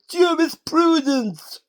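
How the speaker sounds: very slow, high thick-tongued judge voice; mock judge. Recapper mocking the judge character, slow thick-tongued delivery. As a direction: drag the word out like a pompous judge. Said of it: "Don't know why I do that with it".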